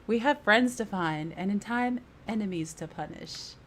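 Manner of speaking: acted British accent, formal phrasing. Companion urging the party to find friends, in British accent. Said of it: "She's turning British all of a sudden".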